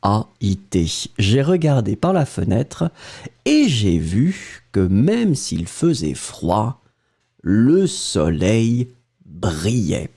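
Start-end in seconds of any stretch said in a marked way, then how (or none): 1.2-10.1 dictation read-back. Shown as a demonstration. Teacher rereads the dictated sentence.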